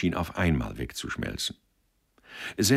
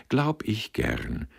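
slow, condescending and a bit higher; 5 semitones higher, slower than usual. Acted. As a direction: talk down to the waiter, slowly. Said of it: "sagte Sender herablassend".

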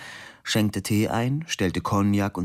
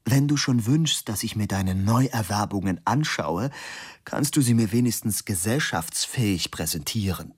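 reproachful. Acted. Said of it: "gähnte verzweifelt und sagte vorwurfsvoll".

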